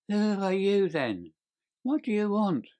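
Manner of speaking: high, frightened little man; quavering voice. A narrator's reading. Little man startled by a hand on his shoulder, quavering. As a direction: ask in alarm, pitched well up. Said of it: "he asked in a quavering voice".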